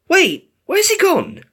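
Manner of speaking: high, slow, startled question; surprised high query; puzzled wondering. A narrator's reading. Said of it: "Dash wondered".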